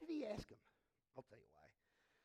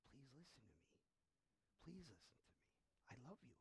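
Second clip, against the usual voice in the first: much softer, pleading and loving; tender plea; 3 semitones lower, 19 dB quieter than usual. Pretend. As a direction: plead gently with a resistant child. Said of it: "so you could go".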